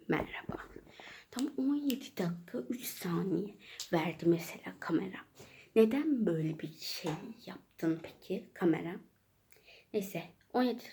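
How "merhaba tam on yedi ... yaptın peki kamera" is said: ASMR whisper. Acted. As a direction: whisper it close to the mic. ASMR-style whispered opening.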